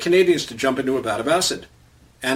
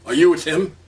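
demanding; 4 semitones higher, 4 dB louder than usual. Retold or imitated. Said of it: "he demanded".

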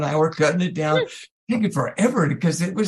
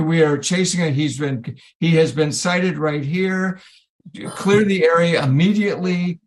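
slow, measured mock police announcement; loudspeaker announcement; 2 semitones lower than usual. Police loudspeaker warning of an escaped prisoner, slow announcement. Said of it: "the loudspeaker comes on".

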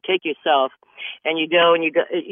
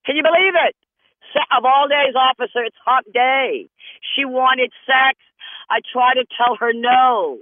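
frantic pleading; 6 semitones higher than usual. Acted. Driver pleading with the police officer, high and frantic. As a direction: babble a wild excuse in a high voice.

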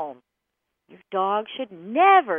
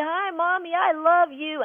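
lightly voiced happy dog, higher; the dog's greeting; 6 semitones higher than usual. The dog greeting Mommy at the door, a lightly voiced eager dog. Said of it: "your dog comes up to you".

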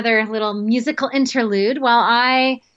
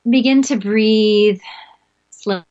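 guided meditation. Acted. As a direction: lead them calmly into the breath. Leads breathing meditation.

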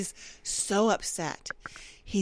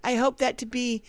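mock obedient husband; 2 semitones higher than usual. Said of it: "And you're like".

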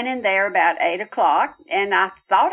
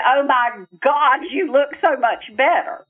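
amazed surprise; 5 semitones higher than usual. Retold or imitated. Daughter seeing her dead father looks better, lifted surprise. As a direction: marvel at him, voice lifting. Retold reunion with late father.

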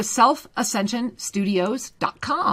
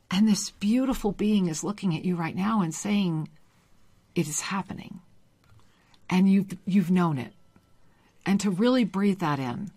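soft hushed whisper; 4 semitones lower, 6 dB quieter than usual. Real, not acted. Host thanks the caller in a soft whisper. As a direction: drop to a breathy hush.

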